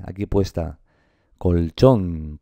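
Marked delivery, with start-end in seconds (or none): 1.4-2.4 colchón in two beats, CHÓN stressed; stress on final syllable. Shown as a demonstration. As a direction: split colchón and land on CHÓN. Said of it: "la sílaba tónica es esta".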